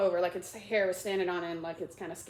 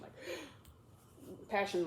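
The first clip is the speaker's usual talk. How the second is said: gasp; 7 dB quieter than usual. Shown as a demonstration. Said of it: "says with passion".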